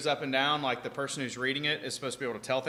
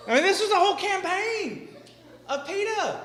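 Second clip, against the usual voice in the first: laughing high disbelief; 7 dB louder than usual. Real, not acted.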